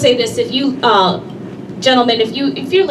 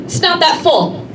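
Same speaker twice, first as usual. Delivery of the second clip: husband in denial; 6 semitones higher than usual. Retold or imitated. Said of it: "There's denial".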